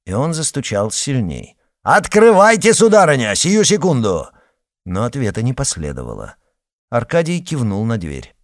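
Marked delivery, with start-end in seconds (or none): 1.8-4.3 much higher, louder shouted order; Arkady shouting at the widow to open; angry demand. A narrator's reading. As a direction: bang out the demand at the door.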